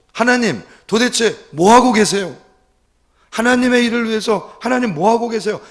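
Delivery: high, loud reenacted plea to God; frustrated outcry. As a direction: cry out in despairing complaint. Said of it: "실망스러운 마음을 가지고 그렇게 외치고".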